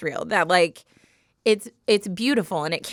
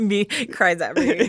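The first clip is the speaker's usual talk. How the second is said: laughing. Real, not acted. Laughing at own crying.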